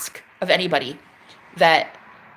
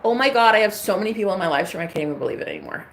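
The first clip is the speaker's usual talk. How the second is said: imagined gushing; faster than usual. Pretend. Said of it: "think thoughts from".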